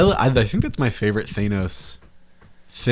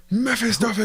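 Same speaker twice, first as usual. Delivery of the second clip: high, theatrical villain-name flourish; hammed-up name; 11 semitones higher than usual. Co-host playing with the villain's name, hammed-up. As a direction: sing out MEPHISTOPHELES high and showy.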